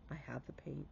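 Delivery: breathy whispered confession; a hushed admission of guilt; whispered aside. Real, not acted. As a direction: drop to a sheepish whisper. Whispered aside about her mess.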